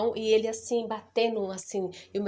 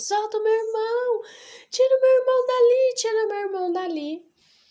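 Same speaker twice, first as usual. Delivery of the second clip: frantic, very high, shrill, panicked shout; 13 semitones higher, 7 dB louder than usual. Retelling panicking while an uncle beats a brother: imitating own panicked shout. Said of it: "eu comecei a entrar em, em pânico".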